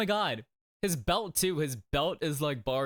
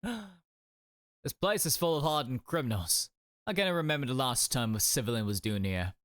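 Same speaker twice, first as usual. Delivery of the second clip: lightly attempted Scottish accent; shaky attempt at Scottish. Prison governor warning a visiting civilian, attempted Scottish accent. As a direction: have a go at a Scottish accent, not quite managing it. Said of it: "I cannot do a Scottish accent".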